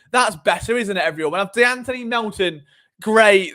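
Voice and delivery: loud mock approval, every word dripping irony; sarcastic praise. Podcaster sarcastically praising a weaker lineup to viewers, loud mock cheer. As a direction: cheer it on loudly while plainly not meaning it. Mocking critics of Eagles offense.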